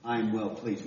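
slow, solemn proclamation from heaven; voice of God the Father. Retold or imitated. Preacher voices the Father over his beloved Son, slow and solemn. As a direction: let it ring out slowly like a voice from heaven. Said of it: "the Father cry out".

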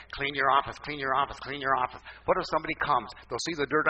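mildly nagging, repeated in a row; playful mock nagging; imitated nagging wife. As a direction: nag like a wife, chanting the demand.

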